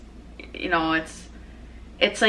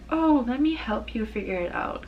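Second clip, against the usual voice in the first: kind mom; 5 semitones higher, 4 dB quieter than usual. Retold or imitated. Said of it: "kind mom that's like".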